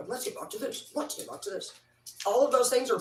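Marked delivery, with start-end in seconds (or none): 0.1-0.9 breathy whisper to herself; soft self-directed whisper. Real, not acted. Repeats to get back on topic. 1.0-1.7 higher, chirpy repeat; high playful call back to topic; high sing-song. Real, not acted.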